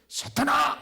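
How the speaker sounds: high, loud, slow call; calling out to Satan. Retold or imitated. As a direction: call out into the dark mountain. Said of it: "늘 제가 말합니다". (산속에서 사탄을 크게 부르는 소리)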